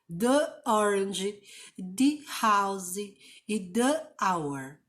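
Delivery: "the orange" and "the hour" slowly, with "the" as "thee"; careful slow teacher model; slow model words. Shown as a demonstration. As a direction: spell out each "the" clearly, slowly. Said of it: "você fala com som de vogal".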